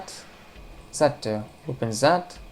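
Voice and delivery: slow secretive whisper; hushed slow whisper to himself. Shown as a demonstration. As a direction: breathe it out slowly like a secret. Same words, now whispered.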